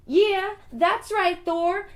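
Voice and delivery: a hammed-up sneer at Thor; mocking outburst. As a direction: throw it back at Thor with scorn. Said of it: "He says".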